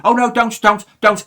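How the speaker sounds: high, loud hammed-up pleading; mock pleading. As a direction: beg him to stop in fake fright. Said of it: "his colleague said".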